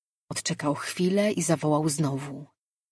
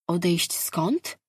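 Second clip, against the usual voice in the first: slow, pointed objection; objecting slowly; slower than usual. Acted. Lejard objects to Mirar's claim, slow and pointed. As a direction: draw out the challenge. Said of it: "Sprzeciwił się Lejard".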